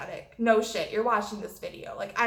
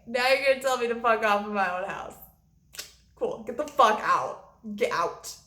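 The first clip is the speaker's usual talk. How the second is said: worked-up retelling of kicking someone out; heated reenactment, mildly raised voice; angry all over again; 3 dB louder than usual. Retold or imitated. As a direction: relive the anger, rushed then punched out. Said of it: "Sorry, got angry all over again".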